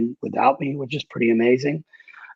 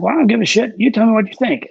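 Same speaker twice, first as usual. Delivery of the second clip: higher, louder blunt demand; mock Jewel demanding; 9 semitones higher, 3 dB louder, faster than usual. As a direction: toss it off like a brash star. Jewel demands his opinion.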